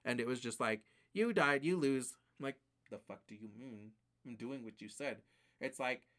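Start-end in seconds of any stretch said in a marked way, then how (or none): 1.1-2.1 loud, blunt game verdict; mock game verdict. Game curtly announces defeat. 2.9-5.2 low, soft, baffled protest; baffled retort. Retold or imitated.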